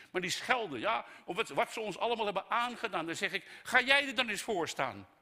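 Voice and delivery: loud, high exasperated tirade; heated preaching. Acted. Preacher challenging critics of government, fired up. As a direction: dare the grumblers to do it themselves.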